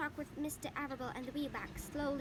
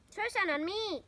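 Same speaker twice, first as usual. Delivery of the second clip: higher, loud eager shout; crying out; 7 semitones higher, 7 dB louder, slower than usual. A narrator's reading. Avery wants water too, loud eager shout. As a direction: beg for water loudly. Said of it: "cried Avery".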